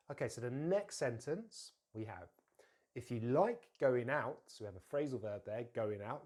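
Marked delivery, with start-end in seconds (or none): 2.9-4.4 slow model, stress on "going out"; unhurried "going out" for learners; stressed phrasal verb. Shown as a demonstration. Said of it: "we're gonna stress that". 5.7-6.2 "going out" clearly stressed; both words of "going out" full; stressed phrasal verb. Shown as a demonstration. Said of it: "we're gonna stress that".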